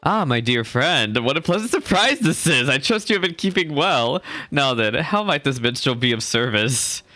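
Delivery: lightly voiced, theatrical minstrel greeting a friend; courtly minstrel. Streamer voicing the minstrel greeting her friend, genial. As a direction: play the genial minstrel welcoming a guest. Reads the minstrel's lines aloud.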